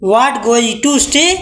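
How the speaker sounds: every word slow and spaced apart; slow dictation. Shown as a demonstration. Teacher dictating the English to her class, slow. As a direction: dictate it word by word so they can write. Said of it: "कहने में क्या जाता है".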